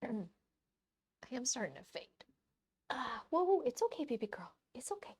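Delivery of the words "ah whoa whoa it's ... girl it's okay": soothing the dog. Real, not acted.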